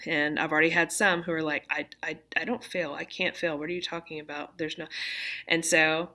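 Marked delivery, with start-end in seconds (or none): 1.7-4.9 mock whisper. Quoting students who don't fail.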